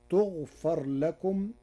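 تغفر said with a u-vowel ta, open fa, slowly; تغفر as tughfar, the passive form; Warsh reading tughfar. Shown as a demonstration. Teacher shows Warsh's تغفر to radio listeners, clear slow demonstration. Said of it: "فتصير".

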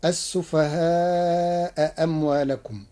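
السفهاء أموالكم recited slowly with both hamzas clear; Hafs reading. Shown as a demonstration. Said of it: "قرأ ورش كلمتي السفهاء".

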